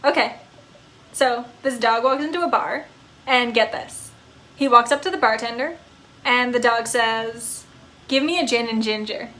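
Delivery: a happy pup who can't sit still; eager talking dog. Acted. Dog telling a joke.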